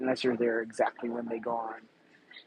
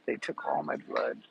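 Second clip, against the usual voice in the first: mock spooky voice; 10 semitones lower than usual. Jokey vampire blood bit.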